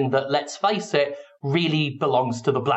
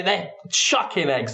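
usual speaking voice

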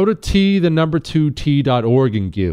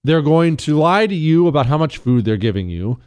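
normal talking voice

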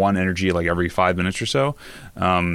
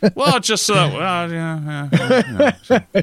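laughing; 10 semitones higher, 3 dB louder than usual. Real, not acted. Laughing at friend's self-mockery.

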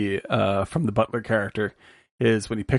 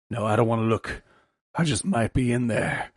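hint of a cartoon Southern rooster, nervous; lightly voiced big chicken, afraid to look; Foghorn Leghorn. Podcaster retells the cartoon punchline to his cohosts, lightly voiced rooster. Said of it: "he goes".

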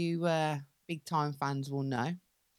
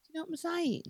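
tired and a bit higher; 8 semitones higher than usual. Real, not acted. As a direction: whine about being tired. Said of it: "I'm tired".

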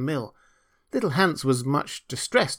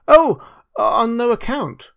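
high, loud, hasty-to-please protest; eager cry; 10 semitones higher, 8 dB louder, slower than usual. A narrator's reading. Hans protesting to the miller, eager cry. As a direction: cry out to refuse the very idea. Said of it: "cried little Hans".

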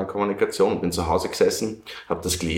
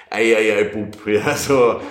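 loud exclamations, ei ei ei; tut-tut himself loudly like a scolding elder; hammed-up self-reproach, louder; mock self-scolding; 5 dB louder, slower than usual. Scolding self after panic.

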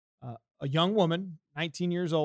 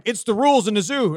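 mock stern guard; 5 semitones higher, 9 dB louder than usual. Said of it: "he's like".

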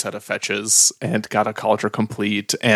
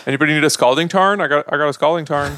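fast, carnival-barker pitch of a card; 3 semitones higher, faster than usual. Pretend. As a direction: call out the card like a street seller. Joking hawker calling out trades.

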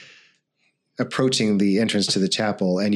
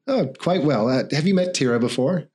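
mayor voice; 5 semitones higher than usual. Acted.

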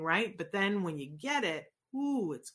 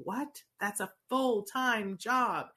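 higher, disbelieving what, then drawn out; parent's objection; 4 semitones higher, 4 dB louder, slower than usual. Retold or imitated. Host voicing a parent balking at forty hours, incredulous. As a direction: protest it like a startled parent, stretching the last words. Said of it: "And I know you go".

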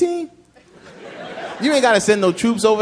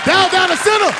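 squeaky enemy voice; 12 semitones higher, 4 dB louder than usual. Retold or imitated.

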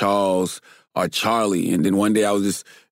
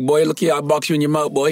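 put-on Geechee accent; 4 semitones higher than usual. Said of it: "They talk like this".

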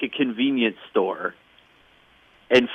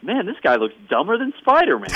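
mocking heckler; 7 semitones higher than usual. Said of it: "speech bubble of someone saying".

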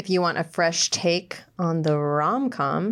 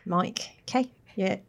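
New Zealand accent. Shown as a demonstration. Host joking about a hot mic, in a New Zealand accent. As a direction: clear Kiwi vowels on mic. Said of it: "say hello with New Zealand accents".

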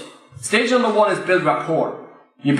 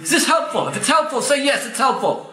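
calling to the crowd; 5 semitones higher than usual. Real, not acted. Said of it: "asks crowd to respond".

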